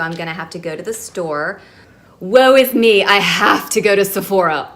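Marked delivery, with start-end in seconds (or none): 2.2-4.7 mock woe. Mock complaint about shopping.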